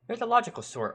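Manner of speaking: high-pitched mock-friendly remark; feigned cluelessness. Policeman hides his irritation from the boy, feigned cluelessness. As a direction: play dumb with a teasing lift. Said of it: "Even as he feigned stupidity".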